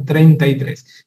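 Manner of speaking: "Treinta y tres" despacio y marcado; treinta y tres lento. Shown as a demonstration. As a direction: pronuncia "Treinta y tres" lento, cada sílaba clara. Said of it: "Sánchez enseñaba eso". ("Treinta y tres" dicho lento, cuidando la R)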